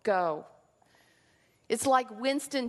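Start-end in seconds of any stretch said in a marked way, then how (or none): 0.0-0.5 very slow, weighty proclamation; solemn prophet's decree. Retold or imitated. Moses before Pharaoh, a slow solemn command. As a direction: thunder it slowly like a prophet before a king. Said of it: "and he's saying".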